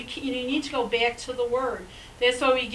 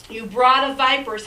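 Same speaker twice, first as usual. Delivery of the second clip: louder, cutting rebuke on "You brood of vipers"; stern rebuke; 5 dB louder than usual. Shown as a demonstration. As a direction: lash out "You brood of vipers" like Yeshua scolding. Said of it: "that wasn't exactly a very nice thing".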